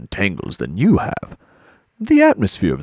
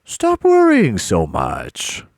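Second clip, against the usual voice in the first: slow, louder, higher reprimand; exasperated command; 5 semitones higher, 5 dB louder, much slower than usual. Acted. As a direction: shut the worrier down, drawing out each word. Host overrules his worried assistant.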